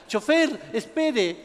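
hailing the driver; mock calling out. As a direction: call after a departing bus, without full volume. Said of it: "la gente le grita".

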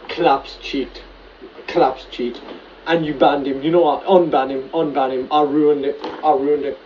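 loud despairing rant; yelling in frustrated rage; raging gamer. Real, not acted. Raging after losing.

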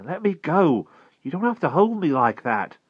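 high, loud protest; indignant demand. A narrator's reading. Held boy demands his release.

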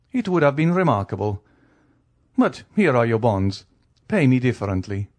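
lightly acted count, lively pitch swings; urbane count, lightly voiced. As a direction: play the count as politely obliging. Count speaks in dialogue.

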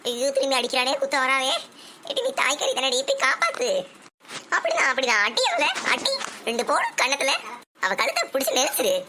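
hammed-up grandma shouting at a serial fight; excited cheering.

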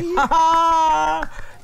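high-pitched, drawn-out laugh; delighted laugh. Acted. Man praising child as future musician, delighted laugh. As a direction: burst out in one long, high laugh.

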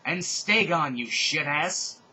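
loud, slowed taunting yell. Acted. Heroine yelling after the fleeing Voldemort. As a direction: yell it after him slowly. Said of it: "I yelled at him".

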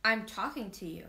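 put-on boy yelling at a lion that ignores him; boy screaming. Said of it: "the boy screamed".

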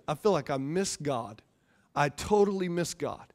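low, soft retold admission; subdued confession. Dad confessing to his kids that he failed, subdued. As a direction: retell a hushed, heavy confession.

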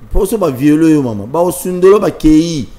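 usual speaking voice

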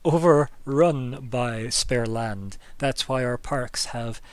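scornful, biting sarcasm; a hint of exasperated mockery, punching overrun; worked-up sarcasm. The official mocking the party's demand for land, worked up and sarcastic. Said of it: "she's actually got quite worked up".

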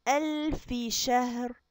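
ألف شهر as ألفِ, the ف with a clear i-vowel; kasra on fa. Shown as a demonstration. Teacher showing the kasra on ألف, slow. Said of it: "نقولها كده ونكسرها".

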